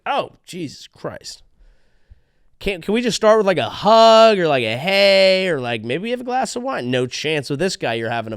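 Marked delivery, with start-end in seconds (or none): 0.0-1.4 slow, hushed, dreading; weary groan. Pretend. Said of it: "she was like". 2.6-6.9 higher, exasperated plea; pleading girlfriend. Pretend.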